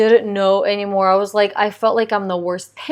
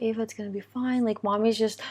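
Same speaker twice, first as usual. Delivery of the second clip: soft, quick parental soothing; retold reassurance; 10 dB quieter, faster than usual. Mom talks with toddler after discipline, soft reassurance. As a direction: lightly imitate gently talking a child down.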